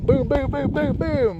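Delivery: high, rapid-fire booms; excited re-enactment. Retold or imitated. Runner doing the bonus rep, excited sound effects. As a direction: voice each pounding step excitedly. Acting out pounding up the steps.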